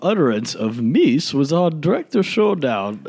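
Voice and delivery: high, loud, grand mock-historian voice. Joking to cohost about future fame, high mock-grand narrator voice. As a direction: announce it like a pompous documentary narrator.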